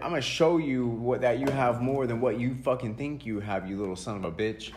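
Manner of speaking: mock furious parent telling off a kid; angry parent. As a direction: play the fed-up parent chewing him out. Voicing his parent scolding him.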